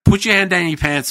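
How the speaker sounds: high, heated retelling of the rant; retold rant. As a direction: tear into him, disbelieving. Ranting at chef in kitchen.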